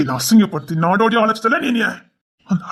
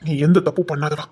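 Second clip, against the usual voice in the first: lower, crying as he speaks; tearful comfort; 5 semitones lower than usual. Acted. Husband tearfully reassuring his scared wife, crying. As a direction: choke back tears while reassuring her.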